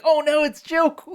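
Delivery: high playful cartoon dismay; Harley Quinn voice. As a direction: squeal it like a cartoon girl. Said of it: "Harley's like".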